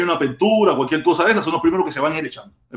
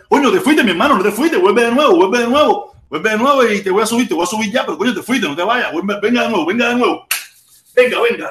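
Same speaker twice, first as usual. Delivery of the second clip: loud, raised, pleading call; urgent calling back; 5 semitones higher, 5 dB louder than usual. Real, not acted. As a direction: call out insistently to someone who left. Calling back a caller who dropped out. (llamando con insistencia, voz alta y aguda)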